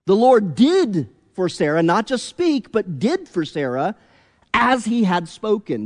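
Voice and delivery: DID in "did for Sarah" hit hard each time; stress on did. Shown as a demonstration. Preacher stressing to his congregation that God acted. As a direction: lean on the word did, not just speak. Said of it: "Did you notice the emphasis on the word?".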